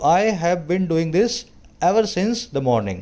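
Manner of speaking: slow, with weight on since; stress on since. Shown as a demonstration. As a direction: lean on since after ever. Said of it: "ever लगा करके सिंस पे थोड़ा जोर".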